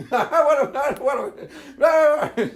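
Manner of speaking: high, slow whine breaking into laughter; hammed-up childish refusal, laughing; laughing kid whine. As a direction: whine like a kid while cracking up. Kid whining through laughter.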